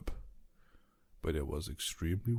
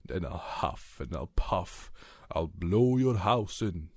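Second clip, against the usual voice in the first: wolf growing louder as he threatens; big bad wolf threatening to blow the house in; 5 dB louder than usual. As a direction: build from threat to loud bluster.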